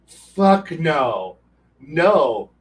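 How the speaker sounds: retold flat-out refusal, punched hard; emphatic refusal. Game master rejecting a player's submarine plan, emphatic refusal. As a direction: shut the idea down firmly.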